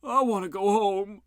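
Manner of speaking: high, whiny moan.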